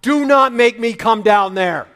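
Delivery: loud, high threatening shout; angry parent shout. Retold or imitated. Fed-up parent threatening the fighting kids, angry shout. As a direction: bark the warning down the stairs. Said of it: "You double down".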